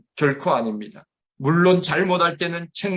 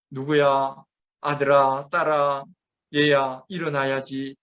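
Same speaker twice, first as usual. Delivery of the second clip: gentle waking; 2 semitones lower, slower than usual. Retold or imitated. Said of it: "하면서 부드럽게 쓰다듬으면서 깨우면".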